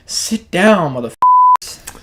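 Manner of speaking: sudden high, loud squealing king's command; hammed-up royal yell; mock tyrant king. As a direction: bark the order as an overblown Macbeth. Macbeth commands the lords, acted.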